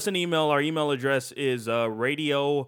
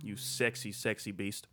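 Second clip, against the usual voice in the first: softer, lower flirty tease; 7 semitones lower, 11 dB quieter than usual. Pretend. Flirty aside to listener.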